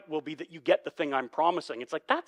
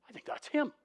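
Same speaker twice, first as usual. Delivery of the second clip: much higher, quiet sly recognition; a pointing guard at the border, murmuring; lightly voiced onlooker; mock Egyptian guard; 11 semitones higher, 3 dB quieter than usual.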